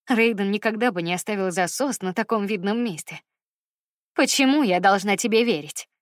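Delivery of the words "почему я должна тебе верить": icy, distrustful question; coldly asked. Acted. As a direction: ask it coldly, keeping her at a distance. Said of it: "холодно спросила она".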